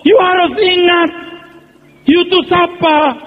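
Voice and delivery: sudden pulpit shout; preaching shout. Real, not acted. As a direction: call it out to the whole church. Preacher warning the congregation.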